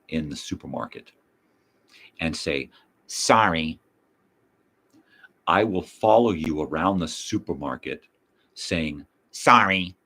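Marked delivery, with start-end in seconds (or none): 3.1-3.8 loud mock apology. Mimicking a supermarket apology, louder. 9.3-9.9 loud, pointed mock apology; calling out sorry. Following a shopper around the supermarket, calling out mockingly.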